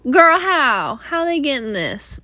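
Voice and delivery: high squeal of what then falling; disbelieving girl, how; loud shocked what; shocked disbelief. Retold or imitated. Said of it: "You're like".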